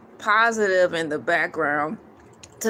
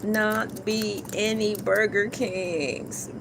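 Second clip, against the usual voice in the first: slow, spelled-out emphasis; much slower than usual. Shown as a demonstration. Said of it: "B U R B U R G E R K".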